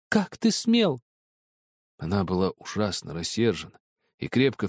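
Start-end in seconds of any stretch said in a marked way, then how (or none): 0.1-1.0 "ты" stressed again, high and angry, falling; indignant repeat. Acted. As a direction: repeat the outrage on "ты". Repeated scolding. (повтор с упором на «ты», гневно)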